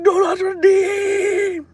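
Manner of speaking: put-on very high, slow, drawn-out Indian accent; hammed-up high Indian accent; Indian scammer accent. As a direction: stretch it out like a pleading Indian caller. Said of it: "when using that accent".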